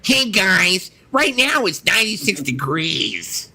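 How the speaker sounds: mock Alexa exchange. Friend acting out asking Alexa, lightly voiced. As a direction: play a smart speaker answer. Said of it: "I'm gonna be like".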